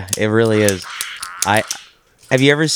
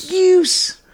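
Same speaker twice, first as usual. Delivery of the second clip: high cracking squeal; silly goose voice. Pretend. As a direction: squeal it like crying. Echoing goose voice.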